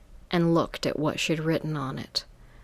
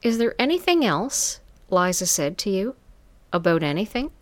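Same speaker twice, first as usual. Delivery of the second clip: higher, sultry madam voice; 3 semitones higher than usual. Acted. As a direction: purr it like a smooth madam. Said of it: "this sultry voice answered".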